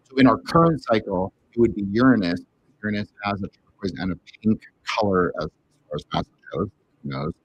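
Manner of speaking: muffled. Real, not acted. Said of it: "it sounds like he's muffled".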